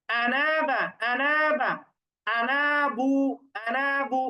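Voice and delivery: আনাবা and আনাবু recited as whole words; recited examples. Shown as a demonstration. Teacher lists examples for students, careful recitation. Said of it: "একটাই শব্দ আনা দিয়ে লেখা".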